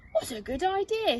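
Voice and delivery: high eager Zog voice; grateful little dragon; eager young dragon. Acted. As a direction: brighten up at the idea. Zog answering the girl.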